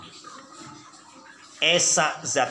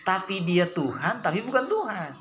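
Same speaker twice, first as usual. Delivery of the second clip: mock opponent; 5 semitones higher than usual. Mocking opponent's claim.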